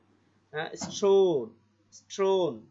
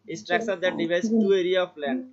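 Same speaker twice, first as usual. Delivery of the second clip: slow reading; much slower than usual. Shown as a demonstration. Teacher reads definition slowly.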